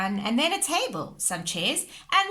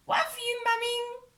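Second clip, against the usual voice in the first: put-on toddler voice; 14 semitones higher than usual. Toddler George speaking.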